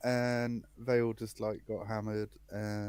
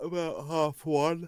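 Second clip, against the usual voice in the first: high-pitched speech through a yawn; 6 semitones higher than usual. Answering a question about why he's tired, yawning. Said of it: "Sorry, I'm actually yawning".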